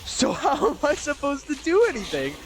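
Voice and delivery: high-pitched, comic exasperation; exasperated. Real, not acted. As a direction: wail it in helpless frustration. Exasperated by clashing team line-ups.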